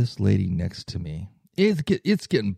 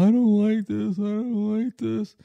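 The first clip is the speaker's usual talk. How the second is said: much higher, wailing imitation of a Caribbean woman; Caribbean accent; 11 semitones higher than usual. Retelling a seatmate's panic on the plane, in an imitated Caribbean accent. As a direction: mimic a distressed Caribbean passenger, pitched way up. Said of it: "Caribbean accent".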